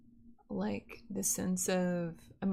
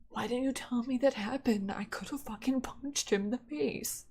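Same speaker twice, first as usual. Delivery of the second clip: higher, louder mock outrage; outraged protective friend; 5 semitones higher, 3 dB louder than usual. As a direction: play the furious boyfriend. Friends outraged hearing the story.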